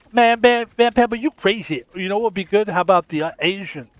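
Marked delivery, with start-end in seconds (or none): 0.1-1.8 higher, louder teasing cohost; mock cohost. Imagined cohost teasing the streamer, louder and higher. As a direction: tease him like a sassy sidekick. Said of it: "she'd be like".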